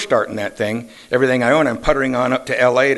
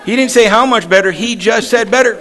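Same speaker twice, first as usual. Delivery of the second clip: real laughter spilling into the words, louder and higher; laughing; 10 semitones higher, 7 dB louder than usual. Real, not acted. Telling the meeting the car joke, real laughter. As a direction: laugh through the punchline.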